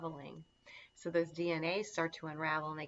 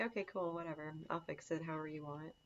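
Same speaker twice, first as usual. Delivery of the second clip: easygoing acceptance; 7 dB quieter, faster than usual. Acted. Acts out an unbothered reply to criticism.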